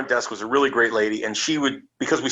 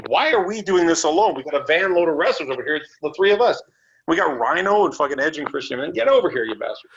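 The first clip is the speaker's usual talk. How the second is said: calling out; 4 semitones higher than usual. Retold or imitated. Calling the wrestlers over.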